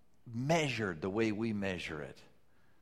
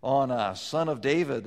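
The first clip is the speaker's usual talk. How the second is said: crying out; 5 semitones higher, 8 dB louder than usual. Retold or imitated. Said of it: "they cried out".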